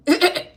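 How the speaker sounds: brief high burst of laughter; short laugh. Real, not acted. Reader voicing someone wanting to touch the cat, short laugh. Breaks off mid quote.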